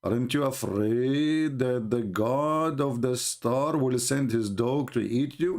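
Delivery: slow, drawn-out mock threat; a lightly voiced menacing prophet; mock menacing quote. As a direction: stretch it out like a sly warning. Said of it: "Then he said to him".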